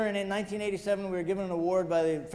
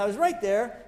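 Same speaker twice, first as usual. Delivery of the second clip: animated; 3 semitones higher, 5 dB louder than usual. Retold or imitated. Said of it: "He got all animated".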